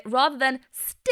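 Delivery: "still" with a tight pinched vowel; squeezed vowel. Shown as a demonstration. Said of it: "squeezed on a pure still vowel".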